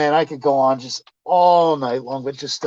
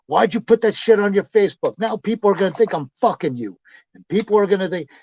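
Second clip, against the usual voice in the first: higher-pitched annoyed protest; retold indignant complaint; 5 semitones higher than usual. Woman confronting him over a Facebook post, indignant. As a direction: mimic her confronting him.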